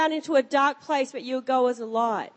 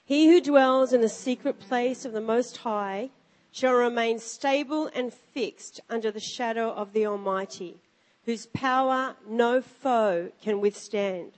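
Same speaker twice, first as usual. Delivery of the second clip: scripture reading. Acted. Reads scripture aloud.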